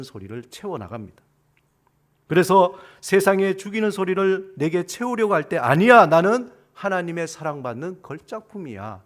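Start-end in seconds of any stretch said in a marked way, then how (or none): 5.6-9.0 loud, emphatic acted refusal; defiant declaration. Believer resisting killing voices, defiant declaration. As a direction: push back firmly, hitting the first word hard. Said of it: "라고 대적해야 되는 거예요".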